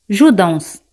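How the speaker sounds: "danse" ending on the S sound, no final vowel; silent final E. Shown as a demonstration. Teacher shows learners that the final E is silent in "danse". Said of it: "al final no se pronuncia".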